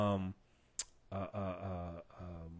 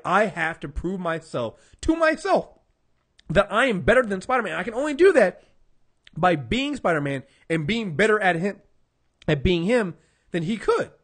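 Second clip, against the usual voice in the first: Kraven declaring; 3 semitones higher, 6 dB louder than usual. Retold or imitated. Retelling Kraven's speech to Spider-Man.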